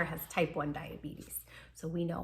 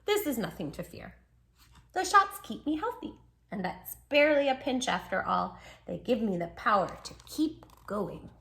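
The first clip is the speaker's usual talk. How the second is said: gentle storybook reading as the pup; lightly voiced pup narrating; reading to children; 3 dB louder than usual. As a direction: read it like a bedtime story. Reads dog's story to children.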